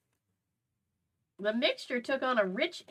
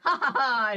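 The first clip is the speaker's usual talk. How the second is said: louder, a hammed-up maniacal ha ha ha; maniacal laugh; 4 semitones higher, 6 dB louder than usual. A narrator's reading. Liam laughing after stealing mushrooms, mock maniacal cackle. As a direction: cackle like a gleeful villain. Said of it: "He laughed maniacally".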